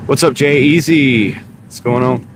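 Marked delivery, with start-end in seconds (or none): 0.1-1.3 big announcer greeting; game show voice. Real, not acted. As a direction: hype it like a game show host. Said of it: "I got the game show voice going now".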